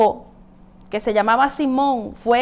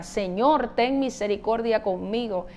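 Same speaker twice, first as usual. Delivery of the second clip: pleading; 3 semitones lower, 6 dB quieter than usual. Retold or imitated. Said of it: "suplicando le pedía".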